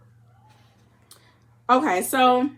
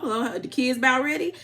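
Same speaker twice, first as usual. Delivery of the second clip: country twang; 5 semitones higher than usual. Retold or imitated. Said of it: "trying to get my country twang on".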